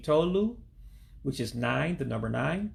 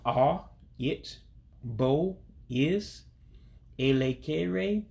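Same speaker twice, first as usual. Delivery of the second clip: slow, syllable by syllable; 2 semitones higher, much slower than usual. Shown as a demonstration. Teacher repeating the Igbo phrase slowly, one piece at a time. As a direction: break "bo" off from "A, it" with a pause before each piece. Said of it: "one time slow".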